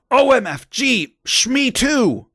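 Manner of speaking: high-pitched mock shriek. A narrator's reading. Girl thrilled to share a house with Satan, shriek. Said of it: "I shrieked".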